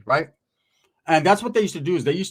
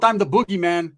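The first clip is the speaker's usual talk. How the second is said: louder, higher punch on boogeyman; menacing declaration; 4 semitones higher, 4 dB louder than usual. Retold or imitated. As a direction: hit him with it like a threat. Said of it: "I hit him with".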